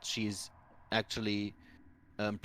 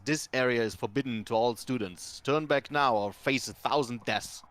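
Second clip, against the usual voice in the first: loud, commanding warning from nowhere; booming voice; 3 semitones higher, 4 dB louder than usual. Acted. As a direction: boom it out like a magic guardian. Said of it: "you hear a booming voice that says".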